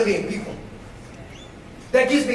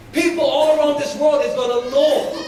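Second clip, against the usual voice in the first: preaching swell; 2 semitones higher than usual. Acted. Preacher peaks on a promise.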